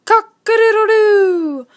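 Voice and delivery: high, loud crowing; rooster crow. A narrator's reading. Narrator crows the rooster at dawn. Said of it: "The rooster ... was awake".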